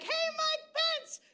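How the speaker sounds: high, mocking, laughing taunt; high gleeful taunt with a shout; mock taunting call. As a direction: crow it high at Mike Pence. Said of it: "I'm like".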